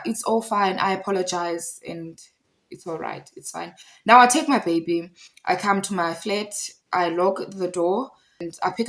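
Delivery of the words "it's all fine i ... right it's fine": apologetic, fading to very quiet; retold meek apology. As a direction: softly imitate someone backing down. Man's retold apology, now calmed down.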